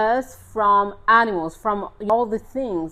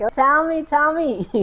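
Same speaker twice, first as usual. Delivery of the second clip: higher, louder, eager pleading; keen and insistent, pitched up; 6 semitones higher, 5 dB louder than usual. Retold or imitated. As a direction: beg excitedly for the story. Begging the driver for the story.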